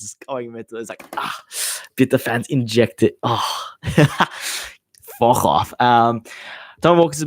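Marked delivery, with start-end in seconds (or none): 3.2-5.7 laughing. Real, not acted. Laughing off bitter rival fans.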